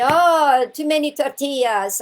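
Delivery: high, loud, cheerful groan of a hiker; loud joking exclaim. Retold or imitated. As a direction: blurt it out laughing at yourself. Man joking while climbing past.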